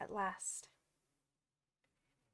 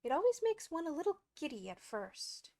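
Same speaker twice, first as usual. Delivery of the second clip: higher, kindly lilt; 6 semitones higher than usual. A narrator's reading. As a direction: reassure kindly in a raised pitch. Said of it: "the Queen said kindly".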